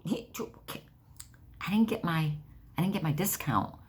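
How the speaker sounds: high, breathy stumbling protest; flustered stammer. Retold or imitated. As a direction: fumble for the words. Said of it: "and I was like".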